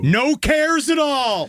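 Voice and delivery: laughing. Acted. Laughing wistful nostalgia.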